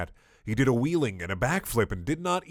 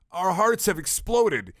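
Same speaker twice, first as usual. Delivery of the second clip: dying guards; 8 semitones higher, 4 dB louder, slower than usual. Acted.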